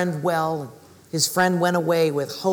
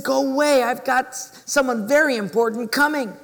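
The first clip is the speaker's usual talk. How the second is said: raised, impatient mock rebuff; brusque dismissal; 6 semitones higher, 3 dB louder than usual. Cobbler expecting an important guest to young sellers, brusque. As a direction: turn them away, louder and higher. Cobbler sends cookie girls away.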